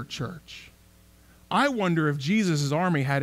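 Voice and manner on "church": a breathy whisper to the congregation; whispered aside. Real, not acted. Preacher leaning in to his congregation, whispering. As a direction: drop to a hush, almost voiceless, just for the one word.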